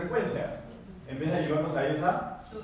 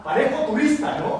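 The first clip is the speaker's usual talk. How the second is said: louder, higher jokey opener to a stranger; joking call out; 8 semitones higher, 9 dB louder than usual. Retold or imitated. Speaker to gym stranger, a loud higher joke. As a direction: toss out a loud self-mocking joke. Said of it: "Y no se ríe".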